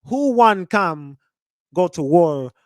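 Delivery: mock Jamaican patois; Academics' Jamaican accent. Streamer mocking a clip's new accent, mock Jamaican. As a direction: imitate a put-on Jamaican accent, repeating haltingly. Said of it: "developed this damn Jamaican accent".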